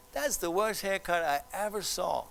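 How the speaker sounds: playful mock insult; light ribbing between guys; friendly teasing. Shown as a demonstration. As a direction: tease a friend you like. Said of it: "You know I'm teasing you".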